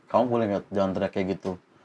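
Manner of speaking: fake wounded, low, soft pleading like a hurt victim.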